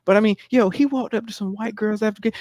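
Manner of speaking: usual speaking voice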